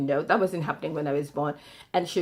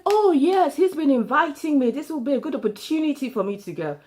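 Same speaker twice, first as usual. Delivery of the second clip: mock eager; 9 semitones higher, 5 dB louder than usual. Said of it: "We're like".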